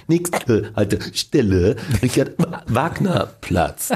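slow, drawn-out station announcer voice; subway announcement. Retold or imitated. Actor mocking patched-together takes, slow subway announcer voice. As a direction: read the stop like a tinny U-Bahn loudspeaker. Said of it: "hört sich's an wie bei den Ansagen in der U-Bahn".

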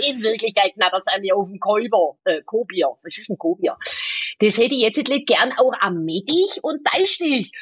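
lightly put-on Swabian pilot mumble; a hint of Swabian, mumbled and oddly stressed; Swabian accent. Pilotin spielt den Kollegen auf Schwäbisch vor, leichter schwäbischer Akzent. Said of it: "Sie ist der schwäbische und der Berliner Pilot".

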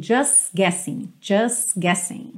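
"just guessing" with no T, S joined on; T dropped in just. Shown as a demonstration. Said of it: "T do just não aparecer".

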